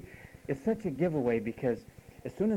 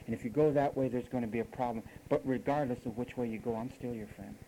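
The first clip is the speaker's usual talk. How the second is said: gentle advice; 4 semitones lower, 4 dB quieter than usual. Retold or imitated.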